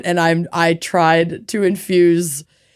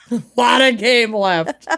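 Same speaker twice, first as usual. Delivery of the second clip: sports fan confidence; 4 semitones higher than usual. Shown as a demonstration. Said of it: "my favorite thing to say".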